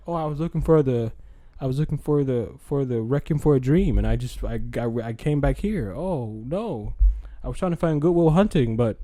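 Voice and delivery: nervous, rushed excuses; flustered excuse. Retold or imitated. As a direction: stammer out a guilty excuse. Acting flustered excuse, louder.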